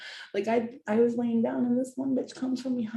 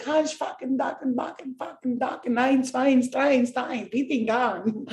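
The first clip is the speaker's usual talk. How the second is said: mock German gibberish; 5 semitones higher than usual. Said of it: "She was like".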